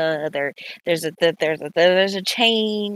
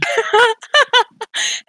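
loud high laugh; 6 dB louder than usual. Real, not acted. Player cracking up at the table, loud laughter.

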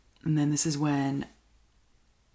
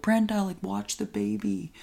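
higher, louder urgent order; urgent call; 7 semitones higher, 5 dB louder than usual. Retold or imitated. Family member urgently telling Brenda to watch the baby. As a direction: call out to her in a hurry. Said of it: "someone comes by and they're like".

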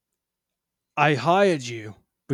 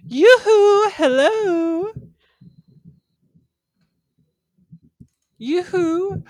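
calling out; 6 dB louder, much slower than usual. Acted. Lady calling out to valet.

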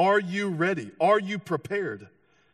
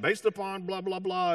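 lightly mocked TV preacher rattling off theory; a hint of televangelist, pitched up; late-night preacher impression; 3 semitones higher than usual. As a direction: parody a chart-reading prophecy preacher. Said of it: "why they all talk like that".

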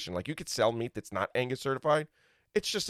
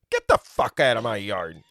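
angry farmer; 3 semitones lower, 4 dB louder than usual. Acted. Acts out angry farmer replying.

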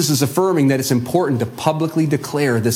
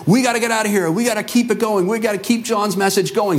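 mild mock excitement; 6 semitones higher, faster than usual. Fired-up followers voiced.

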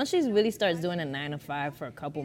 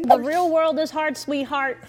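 mock sympathy; 8 semitones higher, 6 dB louder than usual. Mocking the crying girl.

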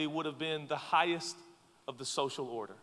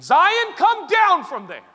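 calling out; 15 dB louder, slower than usual. Real, not acted. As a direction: shout up to Zion to come down. Calling out to a child.

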